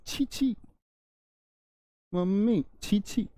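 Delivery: high, soft disgusted squeal. Shown as a demonstration. Teacher imitating a disgusted girl, high disgusted squeal. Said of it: "घृणा पैदा हो".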